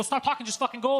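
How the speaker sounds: mildly exasperated rush; urgent retort. Retold or imitated. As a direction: cut the driver off, urgently. Rushing the chatty driver, late.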